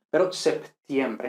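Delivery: septiembre with the P clearly said; don't drop the P in septiembre; full P sounded. Shown as a demonstration. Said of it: "que muchas veces se dice setiembre".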